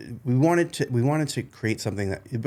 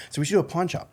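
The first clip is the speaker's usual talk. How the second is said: pawn said like porn, Boston style; broad New England vowels; New England accent; 7 semitones higher, faster than usual. Retold or imitated. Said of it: "I had a New England accent".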